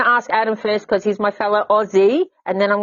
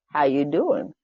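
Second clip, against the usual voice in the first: chatty elevator greeting; 5 semitones higher than usual. Retold or imitated. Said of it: "I'm one that goes".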